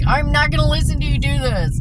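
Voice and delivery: high, loud retold outburst; snapping. Worker refusing to hear coworker's complaints, snapping. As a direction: refuse loudly, pitch jumping up. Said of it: "And so I snapped".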